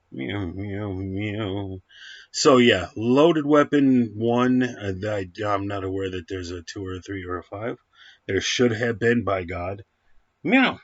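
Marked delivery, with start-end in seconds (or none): 0.1-1.8 quiet imitated cat meows; soft meows. Reviewer meows quietly back at his cat, soft mock meows. 10.4-10.8 squeaky high cat meow, rising; a quick high-pitched meow at the cat. Pretend. Reviewer meows at his cat, high and squeaky.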